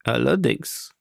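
understated, unruffled confirmation; calm reply. A narrator's reading. Captain calmly confirms to the astonished professor. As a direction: answer quietly composed, no excitement. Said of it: "erwiderte ruhig Kapitän Nemo".

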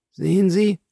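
high, aghast question; stunned question. A narrator's reading. Bertuccio points the Count to Villefort, stunned. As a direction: ask in disbelieving alarm. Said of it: "murmelte er endlich".

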